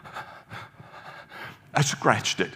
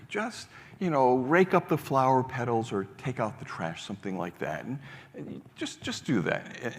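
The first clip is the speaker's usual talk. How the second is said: soothing advice; 3 semitones higher than usual. Retold or imitated. Frank calms the upset boy.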